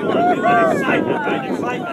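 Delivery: excited. Real, not acted. Hyping up the crowd.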